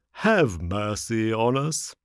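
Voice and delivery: slow, drawn-out plea for mercy; wailing, pleading fox; pitiful begging. A narrator's reading. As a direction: drag it out like a beggar.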